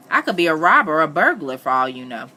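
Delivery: loud, exasperated protest; shouted. A narrator's reading. Richard protesting to Missus Moss, shouting. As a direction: shout it at her, hitting word after word. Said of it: "Then I shouted at her".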